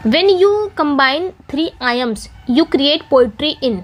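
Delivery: reads the question very slowly, word by word; slow question reading. Shown as a demonstration. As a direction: spell the question out slowly for the class. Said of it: "reading out the quiz question". (प्रश्न को बहुत धीरे पढ़ना)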